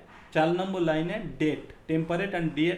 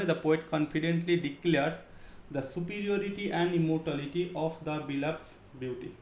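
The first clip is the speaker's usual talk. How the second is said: very slow, each word spaced out for notes; slow dictation; much slower than usual. Shown as a demonstration. Teacher dictating to her students, very slow and deliberate.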